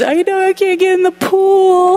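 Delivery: put-on a small child owning up to the rule; little niece voice. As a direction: play the three-year-old who knows she's caught. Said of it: "And she goes".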